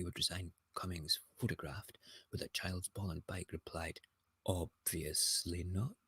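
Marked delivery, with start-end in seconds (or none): 4.4-5.9 a light, slow hint of Snape's drawl; lightly voiced sneering Snape, dragging the words out; Snape impression. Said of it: "That's my, uh, Snape impression".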